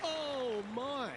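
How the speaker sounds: high, amazed "oh my"; surprised. Real, not acted. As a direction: gasp it out as the putt drops. Putt tracking towards the cup.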